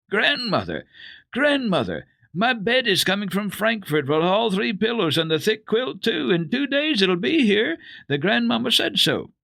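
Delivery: high, loud, bursting with joy; a delighted little girl calling out her news; overjoyed child. Acted. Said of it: "could hardly bring out her message fast enough".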